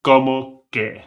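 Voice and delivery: como que said slowly and clearly; model pronunciation. Shown as a demonstration. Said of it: "chunk number one is como que".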